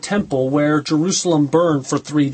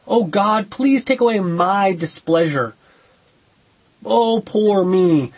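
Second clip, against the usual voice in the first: slow, whiny "Oh, poor me" in a lightly mocking voice; a hint of a sulking complainer drawn out; mock self-pity; slower than usual. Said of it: "This is self-pity".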